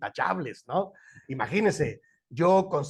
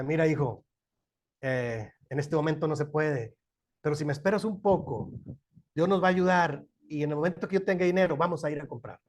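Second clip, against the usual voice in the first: gentle explanation to son. Shown as a demonstration. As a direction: let the son down kindly and patiently. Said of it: "Es diferente".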